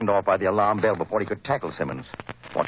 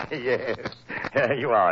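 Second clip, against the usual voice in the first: laughing; 4 semitones higher than usual. Acted. Laughing at Watson's joke.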